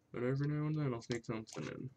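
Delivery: talking around a pen held in teeth; words muffled by a pen in mouth. Real, not acted. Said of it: "I had my pen in my mouth".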